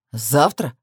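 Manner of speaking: low growled question, rising then falling; understated angry growl; mild growl. A narrator's reading. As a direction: growl it as an indignant man. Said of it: "прорычал он".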